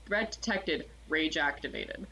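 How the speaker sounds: lightly voiced deep, still robot. Barbarian robot announces going into rage, deep robot voice. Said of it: "it's this deep, like, still robot voice".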